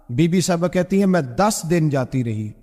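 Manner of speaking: ordinary talk, nothing marked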